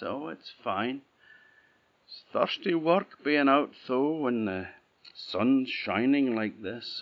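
put-on weary old woman hinting at her need; old woman's voice. Old woman asks for rope.

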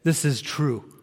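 gentle, fading prayer voice. Acted. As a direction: pray over the people, softening at the end. Leads a closing prayer.

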